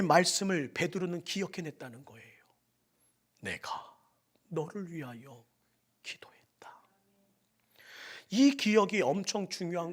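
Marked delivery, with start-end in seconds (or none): 3.4-6.8 breath-only whisper, much softer. Acted. Jesus's words to Peter, whispered. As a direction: whisper the comfort.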